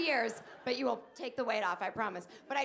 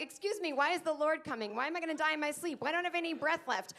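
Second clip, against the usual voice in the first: put-on scared child; 5 semitones higher, 3 dB louder than usual. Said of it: "You're like".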